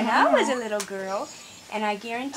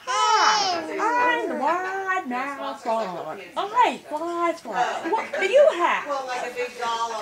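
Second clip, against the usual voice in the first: frog voice; much slower than usual. Acted. Frog greets the squirrel in story.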